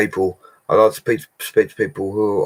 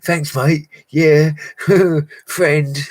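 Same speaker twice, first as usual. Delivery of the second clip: high, sing-song thanks, laughing through it; mock patronising; 9 semitones higher, 5 dB louder, much slower than usual. Mocking his own patronising thanks to a viewer, high and sing-song. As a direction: take the piss out of his own reply to a viewer. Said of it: "I sounded really patronising".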